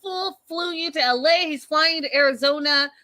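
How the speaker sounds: pitched well up, incredulous, on this fool and Arizona; exasperated retort. Retold or imitated. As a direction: throw the words at her in disbelief. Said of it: "And I was like".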